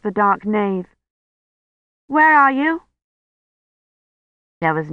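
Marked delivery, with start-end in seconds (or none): 2.1-2.8 high, rising search call; crying out. A narrator's reading. Kivrin looking for the missing priest, high searching call. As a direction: call out higher, rising at the end. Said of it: "she cried".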